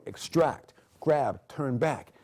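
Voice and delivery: calling the moves firmly during a self-defence demo. Shown as a demonstration. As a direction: call each move out strongly. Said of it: "demonstrating form moves".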